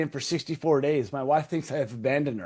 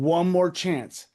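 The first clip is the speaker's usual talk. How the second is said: praying plea. Retold or imitated. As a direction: plead as if praying for forgiveness.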